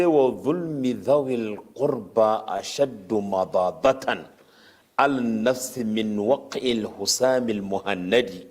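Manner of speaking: rapid chanted recitation of an Arabic verse. Acted. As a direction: rattle off the classical verse quickly, like a well-known quote. Quotes Arabic poetry verse.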